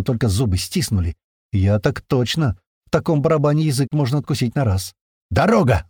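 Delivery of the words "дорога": yelled warning. Acted. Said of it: "заорал грач".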